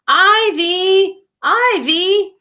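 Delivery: high, loud call across the lake. Acted. Bradley searches the swamp for Ivy, shouting. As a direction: call for a lost friend. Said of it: "he shouted".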